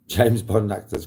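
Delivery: James Bond actors dragged out slowly as a teasing prompt; slow quizmaster drawl; slow, drawn-out prompt. Shown as a demonstration. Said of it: "Come on, folks".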